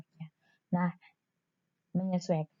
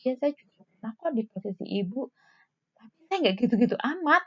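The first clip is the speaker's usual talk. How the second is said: judging nurse; 3 semitones higher, faster than usual. Shown as a demonstration. Nurse belittling a patient's worry, mildly smug. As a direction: brush off the patient with mild superiority. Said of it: "jangan seolah-olah".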